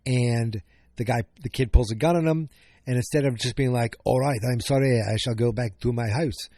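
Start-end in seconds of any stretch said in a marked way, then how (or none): 4.0-6.5 lightly British retold voice; British accent. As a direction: put on a mild British accent. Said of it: "I don't know why I turned British there".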